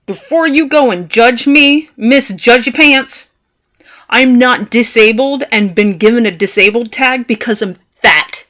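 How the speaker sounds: measured but irritated comeback; aggravated. Retold or imitated. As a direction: tell off a judgy stranger. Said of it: "I was pretty aggravated".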